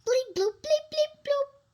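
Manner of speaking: high, clipped robot beeps; playful robot bleeps. Pretend. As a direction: beep it out like a toy robot. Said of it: "When Robot Pete speaks, he says".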